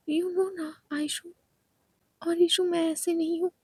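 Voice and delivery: high, hurt pleading to friends; tearful complaint. Acted. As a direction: plead your innocence close to tears. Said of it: "उसकी आंखों में आंसू आ गए थे".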